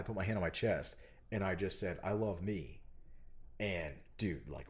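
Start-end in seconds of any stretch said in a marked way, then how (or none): 2.0-2.8 soft, quiet self-directed words; tender admission. Retold or imitated. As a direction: say it softly to yourself, hand on chest. Retold tender moment after screaming.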